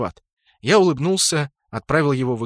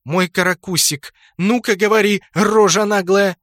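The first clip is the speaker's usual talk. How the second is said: mock sweet scolding; 6 semitones higher, 5 dB louder than usual. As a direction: coo the pet name then press hard. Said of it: "состроила брови домиком". (притворно ласково, потом настойчиво)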